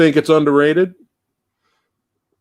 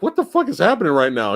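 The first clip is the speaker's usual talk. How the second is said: higher-pitched mock disbelief; baffled reaction; 5 semitones higher than usual. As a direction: replay your bewilderment at the film. Retelling his baffled reaction to film.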